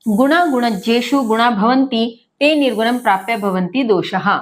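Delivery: steady shloka chant, measured; verse recitation. Acted. Teacher reciting the first shloka to students, chanted. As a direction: recite the Sanskrit verse evenly.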